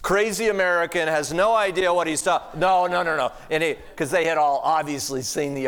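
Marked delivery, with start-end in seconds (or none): 0.0-3.3 mock German protest. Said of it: "He goes".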